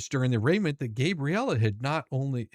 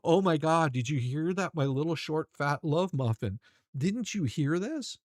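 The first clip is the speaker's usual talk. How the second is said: mock excited gush; 3 semitones higher than usual. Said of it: "very excited about this and said".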